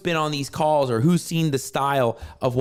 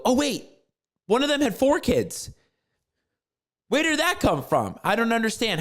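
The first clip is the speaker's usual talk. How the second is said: surprised client; 4 semitones higher than usual. Retold or imitated. Client's surprised retold reply.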